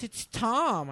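lightly voiced cheerful caller; imitating the therapist on the phone; mock caller. Imitating therapist introducing himself.

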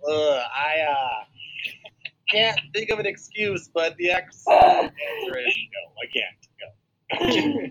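stammer, then wail the no like a cornered guy; mock panicked refusal. Podcaster acting out a man dodging a lunch invite, mock panic. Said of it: "He's like".

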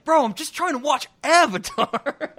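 high, loud laughing imitation; quoting while laughing. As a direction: giggle through the quoted line. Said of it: "Just that line".

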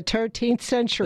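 "thirteenth" with a hard T for TH; Irish pronunciation. Retold or imitated. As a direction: say "thirteenth" like "turteenth". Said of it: "They don't say".

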